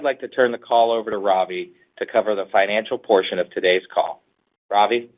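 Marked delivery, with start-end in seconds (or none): none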